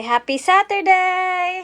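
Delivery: put-on high, bright cue for the kids; cheerful prompt. Shown as a demonstration. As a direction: say it up high to lead them.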